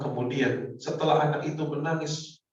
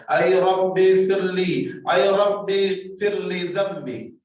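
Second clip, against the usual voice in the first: slow, louder drawn-out plea; pleading prayer; 5 semitones higher, 6 dB louder, slower than usual. Acted. Sinner crying out to his Lord for forgiveness, slow pleading. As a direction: stretch each word out like a desperate prayer.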